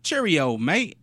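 full-on bad English accent; attempted English accent. Shown as a demonstration. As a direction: punch out a hammy English accent. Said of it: "like, English accent".

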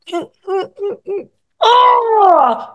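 high whimpers rising into a crying wail; imitating daughter whimpering. Teenage daughter melting after hearing I love you, high whimpering to a cry. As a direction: mimic a teen melting into tears. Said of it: "her sweet little beautiful face would go".

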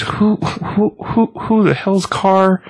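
high, slow startled voice for the guy; voicing the guy in the comic, high and drawn out; startled drunk guy. To the strange light, a high startled man's voice.

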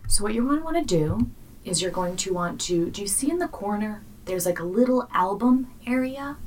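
lightly calm helpful support agent; patient, soothing tech helper; customer service voice. Shown as a demonstration. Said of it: "customer service voice on".

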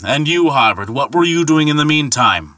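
booming mock challenge from the god; Thor's challenge. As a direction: Thor flinging back the ferryman's own refrain. Thor throws the taunt back.

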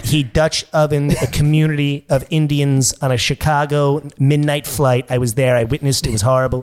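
Donald Trump. Acted. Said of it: "I got Trump and Fat Bastard".

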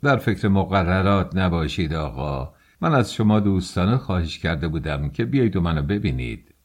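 mildly sly, friendly pretence; sly, insincere. Acted. Investigator feigning a friendly invitation to the young man, mildly sly. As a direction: feign friendship with understated guile. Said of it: "با لحنی مزورانه گفت".

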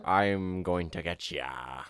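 slow, low pirate growl; lightly voiced pirate drawl. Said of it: "that's closer".

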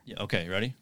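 whispered, rising question; hushed and unvoiced. Real, not acted. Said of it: "you just have to whisper".

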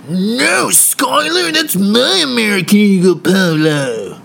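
high, loud bratty comeback; shouting frat brother. Retold or imitated. Tyler yelling back at Skylar about polo, loud and high. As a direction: yell it back like a spoiled bro. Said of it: "douchey brothers".

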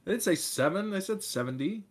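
high, frustrated insisting; exasperated. Real, not acted. Correcting co-host, exasperated.

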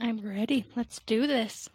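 words around a mouthful of jerky; chewing while talking. Real, not acted. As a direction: talk while chomping jerky. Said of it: "sorry if you hear me chomping jerky".

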